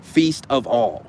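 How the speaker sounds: "feast of all" drawn out word by word; slow, deliberate "feast... of... all"; slow demonstration. Shown as a demonstration. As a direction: spell out the wordplay slowly, each word set apart. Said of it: "I need y'all to say that".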